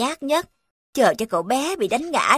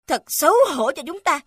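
shouting; 6 semitones higher than usual. Acted. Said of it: "Ông ta hét lên".

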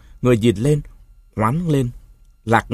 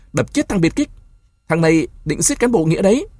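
angry crowd yell; 7 semitones higher than usual. A narrator's reading. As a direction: yell for blood.

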